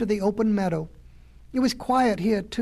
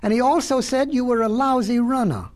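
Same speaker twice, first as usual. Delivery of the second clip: high-pitched, moderately raised jeer; crow's yell; 4 semitones higher, 4 dB louder than usual. Acted. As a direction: call out the insult for all to hear. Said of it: "yelled a crow".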